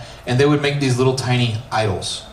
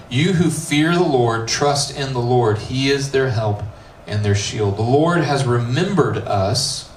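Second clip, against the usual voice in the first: scripture reading. Acted. Pastor reading the psalm to his youth group, measured. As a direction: read the psalm aloud with weight.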